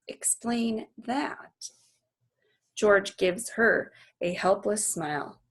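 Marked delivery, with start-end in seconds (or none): 0.1-1.7 softer, slow dare; a hint of a sly child; challenge. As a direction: dare him to explain. Girl challenging her father.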